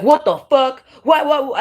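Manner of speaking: a high, loud, hammed-up "What the fuck? What, what?"; a fake-innocent squeal of surprise from the killer; mock fake shock. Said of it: "And they'll be like".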